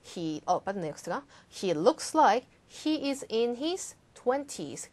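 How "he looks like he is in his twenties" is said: slow, even model sentence; slow model reading. Shown as a demonstration. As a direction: read slowly with a falling end. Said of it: "한 번 더".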